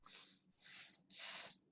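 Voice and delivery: soft whispered tss tss; monkeys tsk-tsking. Acted. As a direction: tut back at him like a monkey. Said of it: "the monkeys ... said".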